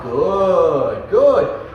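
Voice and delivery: steady, settled "good"; calm praise. Shown as a demonstration. Trainer calmly settling the dog with praise. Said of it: "I might be a little bit more calm".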